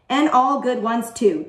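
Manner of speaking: lightly chirped interjection; chirpy. A narrator's reading. Pupil cheerfully backing up a classmate, lightly chirpy. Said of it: "chirped Kathy".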